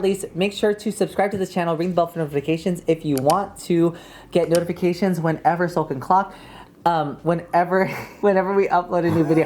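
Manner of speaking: rapid-fire run-on plug; talking really fast. Shown as a demonstration. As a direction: rush the words together. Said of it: "I was talking really fast".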